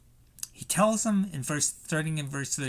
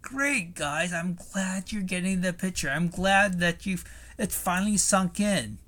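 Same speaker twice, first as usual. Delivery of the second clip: congratulating; 3 semitones higher than usual. Retold or imitated. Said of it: "perhaps you might say".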